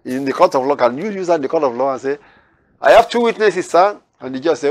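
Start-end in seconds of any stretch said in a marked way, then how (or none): 2.8-4.0 lightly voiced defendant, a bit higher and eager; mock defendant. A hint of a man pleading to the judge. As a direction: pretend to plead before a judge.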